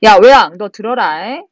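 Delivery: acted stern reprimand; mock scolding. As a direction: rebuke a defeated ruler, lightly acted. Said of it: "크게 꾸짖으면서".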